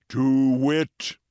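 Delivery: loud hooting "To wit"; owl's hoot. Acted. Owl answering the secretary bird, hooting.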